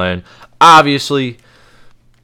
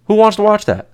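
high, mocking whine of disbelief; squeaky put-on voice asking who'd watch that; mock incredulous; 10 semitones higher than usual. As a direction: pitch it way up like a whiny disbelieving fan. Repeats the complaint differently.

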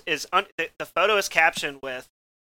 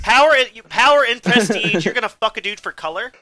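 incredulous repeat; 5 semitones higher, 5 dB louder than usual. Real, not acted.

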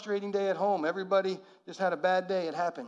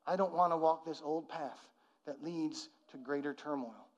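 quiet prayer; 3 semitones lower, 5 dB quieter than usual. Shown as a demonstration. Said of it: "And, and say".

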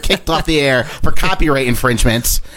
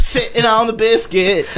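mock high voice; 5 semitones higher than usual. Echoing the riff in a squeaky voice.

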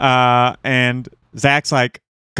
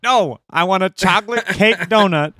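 retold exasperation; 6 semitones higher than usual. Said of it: "And Zach's like".

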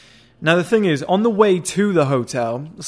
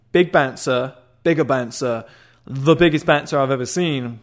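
usual speaking voice

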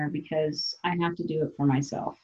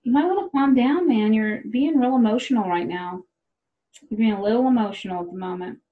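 mock soothing; 4 semitones higher than usual. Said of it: "They really hate that".

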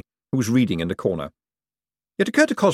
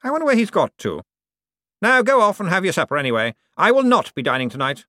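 condescending lord to servant; Cosmo's voice; 9 semitones higher than usual. Acted. To his butler, Cosmo's lofty patronizing voice.

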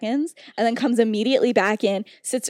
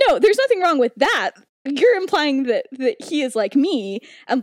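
mock indignant retort, pitched up; defensive; 3 semitones higher, 4 dB louder than usual. Remus objecting to what Lily implies, acted defensiveness. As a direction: imitate someone getting defensive, punching the opening words. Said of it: "he goes into full defensive mode".

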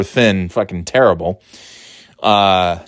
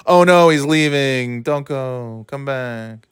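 mock dismay; slower than usual. Mock plea as man leaves.

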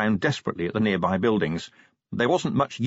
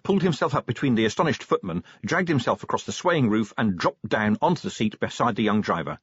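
ordinary delivery

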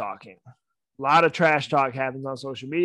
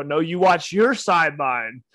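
retold comeback; 2 semitones higher, 6 dB louder than usual. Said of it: "I go".

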